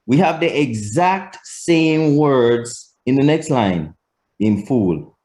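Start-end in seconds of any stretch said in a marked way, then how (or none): 4.4-5.2 IN FOOL with the pitch falling on FOOL; statement intonation. Shown as a demonstration. Teacher contrasting same words by tune, falling statement intonation. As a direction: state IN FOOL, ending downward. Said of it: "The intonation".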